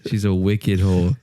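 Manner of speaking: slow, lightly put-on Boston accent; Boston kid taunt. Schoolkid jeering about a classmate's mom, hammed-up Boston accent. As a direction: drag out a mock Boston insult through a laugh. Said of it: "Why are you talking like this".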